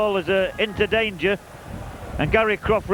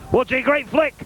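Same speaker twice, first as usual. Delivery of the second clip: excited; 3 semitones higher than usual. Real, not acted. Goalmouth scramble called live.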